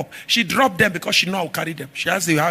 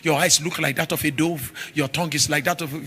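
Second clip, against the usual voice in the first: mock flatterer; 4 semitones lower, 3 dB quieter than usual.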